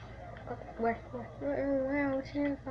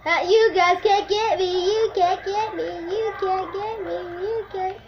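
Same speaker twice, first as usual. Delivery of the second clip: taunt; 5 semitones higher than usual. Acted. Taunting in a game.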